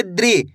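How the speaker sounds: द्रि said as one syllable "dree", pitch falling; teacher's model द्रि, d and r joined; demonstrated DRI sound. Shown as a demonstration. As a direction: run d straight into ri in द्रि. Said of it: "दा को कैसे पढ़ेंगे?".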